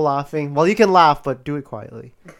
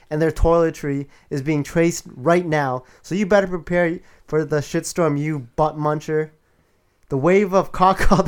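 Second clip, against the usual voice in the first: booming demon lord. Acted. Acted girlfriend's threatening rant.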